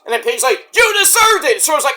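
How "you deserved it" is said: high-pitched imitated retort; hammed-up angry comeback; Adam Page yelling. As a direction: shout back in mock fury. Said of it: "Page and Swerve are yelling at each other".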